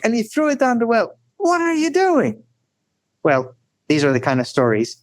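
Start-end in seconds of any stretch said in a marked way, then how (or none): 1.4-2.4 frightened, angry cry. Retold or imitated. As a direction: cry it out, shocked and upset at the loss. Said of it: "frightened, angry, upset".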